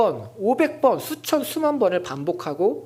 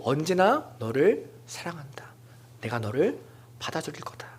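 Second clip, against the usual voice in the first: tender whisper; 5 dB quieter than usual. Acted. Jesus assuring each listener of love, whispered.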